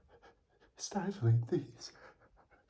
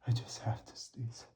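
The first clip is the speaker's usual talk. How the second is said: soft whispered warning; whispering; 4 semitones lower, 5 dB quieter than usual. Real, not acted. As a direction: whisper it under breath. Whispering before sneeze.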